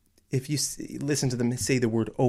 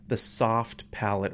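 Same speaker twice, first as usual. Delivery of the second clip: slow repeat. Shown as a demonstration. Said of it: "teacher repeats term slowly".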